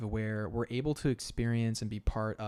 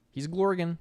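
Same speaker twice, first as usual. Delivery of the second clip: excited squeal; 7 semitones higher, 7 dB louder than usual. Pretend. Playful gurgle commentary.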